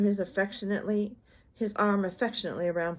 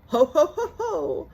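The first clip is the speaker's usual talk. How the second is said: high, loud merry chortle; chortling ho ho; 10 semitones higher, 8 dB louder, slower than usual. A narrator's reading. Tigger chortles at his own joke, delighted. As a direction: chortle in delight, eyebrows wagging.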